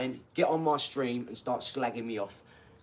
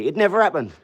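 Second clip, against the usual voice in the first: firm loud; 3 semitones higher, 7 dB louder than usual. Real, not acted. Boastful rant.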